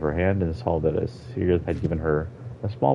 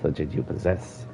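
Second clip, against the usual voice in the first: old Argonian voiced with a Jamaican lilt; light Jamaican accent for the elder. Old Argonian explaining the lost forest to a child, Jamaican accent. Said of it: "giving him a Jamaican accent".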